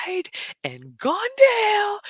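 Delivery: high, breathy whisper of dread; horrified whisper. Retold or imitated. Telling viewers her reaction at the gate, horrified whisper. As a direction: whisper it like a nightmare.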